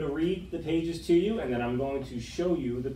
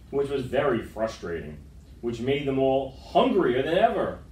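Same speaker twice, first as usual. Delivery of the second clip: lively picture-book read-aloud; story narration. A narrator's reading. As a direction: read to the kids with gentle drama.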